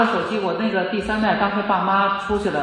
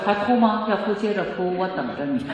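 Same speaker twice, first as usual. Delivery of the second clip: calm and unbothered; 4 dB quieter than usual. Shown as a demonstration. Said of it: "你坐下来说".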